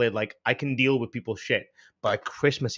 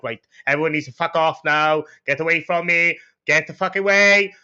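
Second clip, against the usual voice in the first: retold angry dismissal; 3 semitones higher, 5 dB louder than usual. Retells losing his cool at shoppers.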